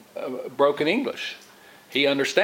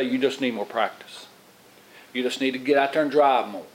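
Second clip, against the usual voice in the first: encouraging; 3 semitones lower than usual. Retold or imitated. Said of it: "way I encourage him".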